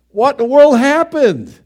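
loud, high cry of dismay; dramatic exclamation. Real, not acted. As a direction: throw the question out to the room. Dramatic rhetorical question.

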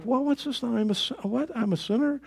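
a hint of a curious boy hearing the gospel; lightly voiced questioning child; puzzled young self. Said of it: "and I'm going like".

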